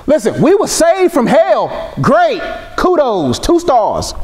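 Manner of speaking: high, mock-unimpressed review of being saved; sarcastic dismissal. Preacher mocking half-hearted faith, sarcastic and high. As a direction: shrug it off like a bored critic.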